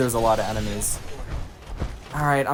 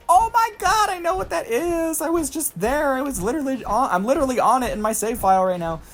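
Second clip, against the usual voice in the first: very high-pitched squeal of recognition; excited squeal, starting sky-high and settling toward the end; hyped fan; 12 semitones higher than usual. Retold or imitated. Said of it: "that kind of stuff just hypes me".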